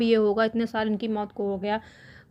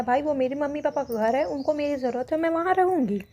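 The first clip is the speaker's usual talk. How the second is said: retold firm declaration, pitched up; plainly stated; 4 semitones higher than usual. Retelling the sister-in-law refusing to leave her parents' house, mildly assertive. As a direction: imitate her putting it in no uncertain terms, higher voice. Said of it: "साफ शब्दों में कह दिया".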